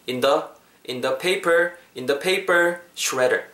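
"in the" light, stress landing on "paper"; unstressed preposition. Shown as a demonstration. Teacher building up the phrase for learners, "in the" left unstressed. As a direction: keep "in the" unstressed before "paper shredder". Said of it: "전치사는 여러분 강세는 안 들어가죠".

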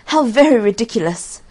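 high, loud exclamation of ridicule; scornful cry. A narrator's reading. Onlookers mock the weeping student, high scornful cry. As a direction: cry out at the absurdity. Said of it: "they cried".

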